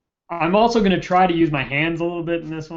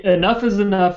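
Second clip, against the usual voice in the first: put-on Brooklyn accent; 5 semitones higher, 4 dB louder than usual. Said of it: "what is that phrase he uses".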